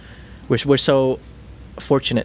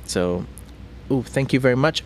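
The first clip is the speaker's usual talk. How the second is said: normal talking voice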